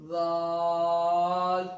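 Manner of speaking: ذال drawn very slowly, soft and light; ذال with a soft buzzing ذ; soft Zaal. Shown as a demonstration. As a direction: stretch ذال gently. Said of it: "بہت آہستگی سے ادا کرنے والی".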